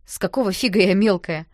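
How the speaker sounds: loud indignant comeback; protest, offended and sharp; indignant retort. Acted. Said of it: "возмутилась я". (возмущённо и громко)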